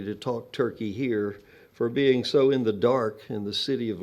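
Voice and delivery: measured recital with lifted line openings; poetry reading. Acted. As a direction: read your poem to an audience, each line deliberate. Reads own poem aloud.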